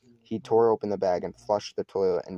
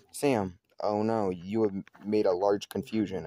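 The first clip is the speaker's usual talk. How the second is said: fake Finnish accent. Sam posing as his Finnish cousin, mild fake Finnish accent. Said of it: "trying to do my best ex-, accent".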